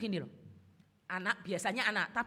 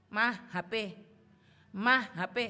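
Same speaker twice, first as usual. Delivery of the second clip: put-on child whining; 6 dB louder than usual. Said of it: "Saudara punya anak, kebaktian".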